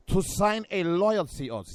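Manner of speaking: slowed mock-German accent. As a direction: draw it out in a put-on German accent. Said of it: "you hit it with the German accent".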